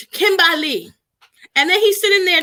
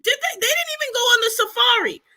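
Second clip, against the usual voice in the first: higher, laughing mockery; laughing through the words; 6 semitones higher than usual. Real, not acted. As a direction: crack up while mocking.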